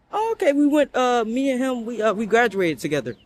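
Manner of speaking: a hint of an awkward ex explaining; voicing the ex. Ex voiced in retold story.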